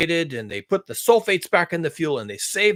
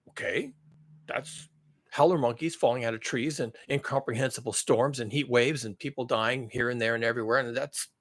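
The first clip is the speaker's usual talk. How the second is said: mocking economist voice; 4 semitones lower, 4 dB quieter, slower than usual. Voicing complacent economists mockingly.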